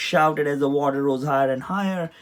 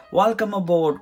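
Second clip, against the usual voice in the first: higher, louder hearty welcome; hearty call; 5 semitones higher, 5 dB louder than usual. A narrator's reading. Tugboat captain greeting Rex with a hearty call. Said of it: "called Captain Surge".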